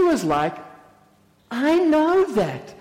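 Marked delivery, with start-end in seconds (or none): 1.5-2.7 high, drawn-out exasperation; indignant retort. Acted. Mary answering her patronising sister, indignant retort. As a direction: stretch it out, pitched up, insulted.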